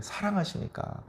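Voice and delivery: breathy whisper of the key word; 사랑하시니까 barely voiced, falling. Shown as a demonstration. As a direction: whisper 사랑하시니까 as a tender aside. Preacher repeats key word softly.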